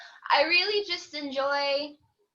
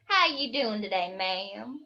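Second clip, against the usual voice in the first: Southern US accent, dropping low on "ma'am"; slow Southern drawl; 4 semitones lower than usual. Shown as a demonstration. Demonstrating a Southerner greeting a lady, Southern drawl. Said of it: "they like to talk real slow".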